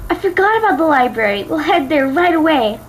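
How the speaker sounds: eager Twilight rushes off, lightly voiced.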